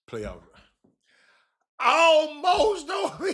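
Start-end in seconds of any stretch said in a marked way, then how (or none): 1.8-3.3 high, slow, stretched mockery; mocking drawl. Real, not acted. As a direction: stretch it out to ridicule the claim. Mocking the almost-lost claim.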